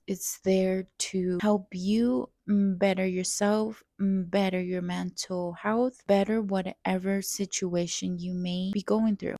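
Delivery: normal talking voice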